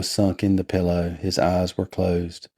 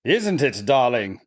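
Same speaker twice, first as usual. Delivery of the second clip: higher put-on voice, descending; understanding brother; 5 semitones higher than usual. A narrator's reading. Laurie who quite understood his sister, fond agreement. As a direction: agree fondly in a raised character voice. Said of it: "said Laurie".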